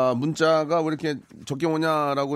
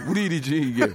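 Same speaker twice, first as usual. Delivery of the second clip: laughing while talking; 4 semitones lower than usual. Real, not acted. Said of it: "웃지 마세요".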